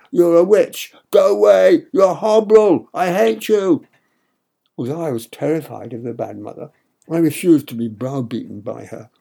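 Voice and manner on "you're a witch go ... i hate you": loud, high furious yelling; child's furious shout. A narrator's reading. Boy screaming at the bad mother, furious. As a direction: hurl it at her with all your might. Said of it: "I shouted".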